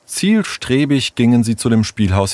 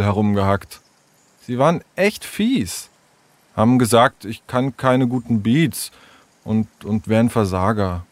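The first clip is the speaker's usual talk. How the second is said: hesitant, lightly voiced young storyteller; reluctant troubled child; 2 semitones higher than usual. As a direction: reluctantly confide in your friends.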